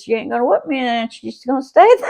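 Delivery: defiant sister shouting back. Retold or imitated. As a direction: dig in and refuse to budge.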